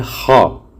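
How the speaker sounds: "खा" rasped like a snore in the upper throat; "खा" with a snoring khaa. Shown as a demonstration. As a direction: scrape "खा" from the top of the throat. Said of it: "खराटे की आवाज़ जो है ये ऊपरी throat से".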